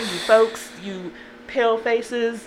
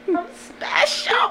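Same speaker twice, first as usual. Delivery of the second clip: whispering; much slower than usual. Pretend. Joking about getting a new mic.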